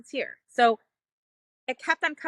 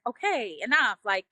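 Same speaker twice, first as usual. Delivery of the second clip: impatient inner voice; 3 semitones higher, slower than usual. Retold or imitated. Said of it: "wanting to fix it".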